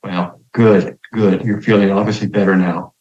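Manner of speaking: a hint of a calm, pleased priest. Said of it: "He says".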